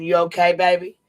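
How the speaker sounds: lightly hammed teasing copy; mock Queen Bee. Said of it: "always calls everybody baby".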